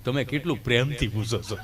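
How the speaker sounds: low, sheepish mumble; Gabho's voice. Retold or imitated. Gabho mumbles back to the doting nurse, low and sheepish. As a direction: answer low like a shy villager.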